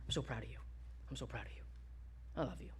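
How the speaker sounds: very soft, low and tender; tender fatherly murmur. Acted. Dad telling his kids how proud he is, tender. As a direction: say it hushed, like a loving dad. Father voiced speaking to children.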